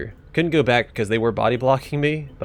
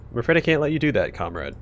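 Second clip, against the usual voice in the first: teasing mimicry, pitched up; mocking voice; 3 semitones higher than usual. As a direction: say it to mock the machine. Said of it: "Say with a mocking voice".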